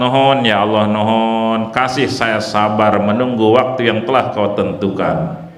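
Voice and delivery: low, slow, gentle plea; lightly voiced earnest prayer; humble prayer for a spouse. Shown as a demonstration. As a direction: ask for a match meekly, surrendering to God. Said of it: "Enak nggak?".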